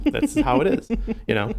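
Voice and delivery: high, lilting New Orleans accent. Shown as a demonstration. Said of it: "We talk like this".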